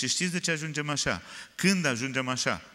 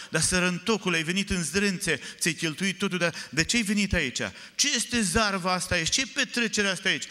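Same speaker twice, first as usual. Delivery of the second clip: angry shouting brother; 6 semitones higher than usual. Acted. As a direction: bellow it like a jealous older brother. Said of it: "A început dintr-o dată să țipe".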